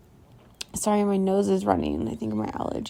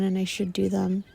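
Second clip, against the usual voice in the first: slight emphasis on "should", the other words unstressed; stress on should. Real, not acted. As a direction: lean lightly on "should". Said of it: "with should as the emphasis".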